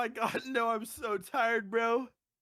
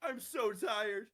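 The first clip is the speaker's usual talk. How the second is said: laughing tears; 7 dB quieter than usual. Real, not acted. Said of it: "I'm literally crying".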